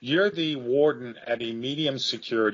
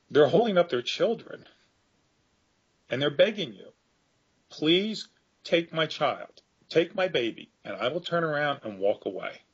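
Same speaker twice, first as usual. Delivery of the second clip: emotional plea; 6 semitones higher than usual. Real, not acted. Guest moved while retelling parents begging with their babies, raised and emotional. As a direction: let the emotion rise as the parents beg. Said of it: "I might get a bit emotional talking about this".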